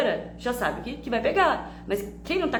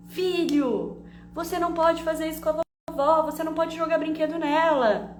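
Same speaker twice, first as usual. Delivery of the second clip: scolding sermon; 6 semitones higher than usual. Retold or imitated. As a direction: lay down the law to a four-year-old. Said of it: "comecei a dar um sermão no meu filho".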